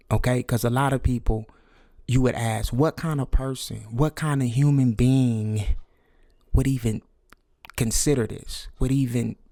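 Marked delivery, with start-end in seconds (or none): none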